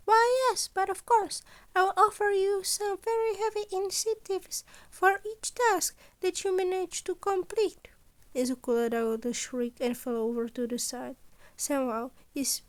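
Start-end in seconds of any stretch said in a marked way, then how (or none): 0.1-7.9 higher, louder voice for the cheerful scheming principal; principal Nezu. Acted. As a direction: play Nezu brightly pleased with his impossible demands. Nezu sneaks up, replies.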